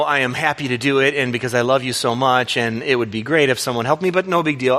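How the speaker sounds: lightly voiced, sugary self-pity; passive-aggressive Martha. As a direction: put on a hint of a long-suffering host. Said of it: "I don't know why I'm talking like that".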